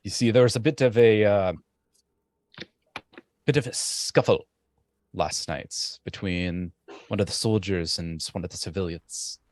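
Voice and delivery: lightly voiced soldier reporting trouble, halting; troubled soldier Thornton. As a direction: hesitantly bring bad news to your captains. Game master voices Thornton reporting.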